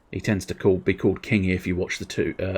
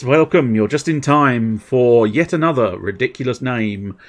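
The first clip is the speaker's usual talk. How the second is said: showy welcome; 2 semitones higher, 5 dB louder than usual. Real, not acted. Showy greeting to arriving viewer.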